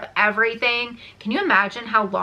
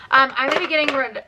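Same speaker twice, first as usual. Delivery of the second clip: rattling it off quickly, a bit higher; talking fast; 4 semitones higher, faster than usual. Real, not acted. Racing through the declutter to get to her quesadilla, fast. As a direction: hurry through to finish the video. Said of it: "so I'm talking so fast".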